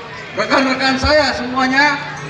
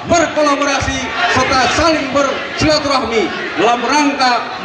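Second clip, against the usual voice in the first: rousing speech. Real, not acted. Rousing official speech at event.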